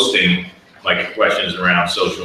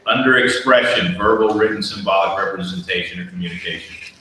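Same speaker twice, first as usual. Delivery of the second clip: to someone hard of hearing. Real, not acted. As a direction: speak up so everyone hears. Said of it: "Please speak up, I can't hear you".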